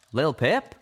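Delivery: concerned question. Acted. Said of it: "he began".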